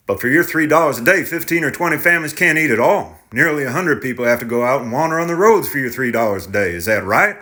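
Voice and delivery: lightly voiced indignant farmer; tenant farmer voice. Tenant challenges the driver.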